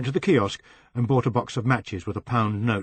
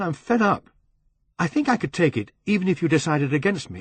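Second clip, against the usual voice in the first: 1 angry outburst; 7 semitones higher, 3 dB louder than usual. Acted. Angry phone call to lover.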